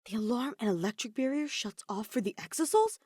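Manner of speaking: puzzled robot voice. Acted. K1-B0 puzzled aside.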